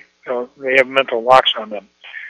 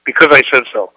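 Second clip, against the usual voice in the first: firm parental line; 5 dB louder, faster than usual. Shown as a demonstration. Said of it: "here's my fourth one".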